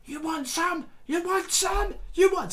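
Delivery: high, taunting schoolboy voice; hammed-up teen squaring up to a teacher; mock challenge. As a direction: pitch way up and goad like a cornered lad. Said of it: "starts going".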